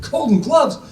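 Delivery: high-pitched astonished question; amazed. Retold or imitated. Family on the phone hearing of brother's win, astonished.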